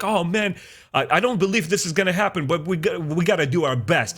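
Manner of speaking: fast, high, fretful doubt; nervous hope. Retold or imitated. Ewoks straining to believe in the miracle, fast and high. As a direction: rush it out high, half doubting.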